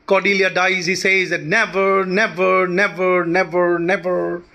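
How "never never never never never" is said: "never" repeated evenly, stress on each "ne"; even, measured run of NEver; trochaic beat. Shown as a demonstration. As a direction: chant each "never" as stressed then unstressed. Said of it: "These are trochaic in meter".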